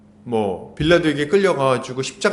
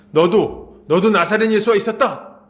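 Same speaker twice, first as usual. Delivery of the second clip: raised, pointed accusation; mock accusing shout; 4 semitones higher, 4 dB louder than usual. Servant girl spots Peter by the fire, mock accusing cry. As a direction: call out the accused, half-shouting. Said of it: "갑자기 탁 소리 지르면서".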